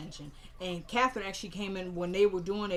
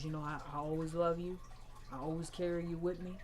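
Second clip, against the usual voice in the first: soft, lowered farewell over the casket; imitating a grandmother's soft goodbye; tender grief; 2 semitones lower, 5 dB quieter than usual. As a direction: speak gently to the dead grandson.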